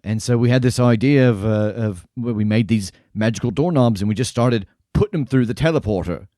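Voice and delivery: lightly voiced jolly barkeep; a hint of a cheerful innkeeper; friendly tavern keeper.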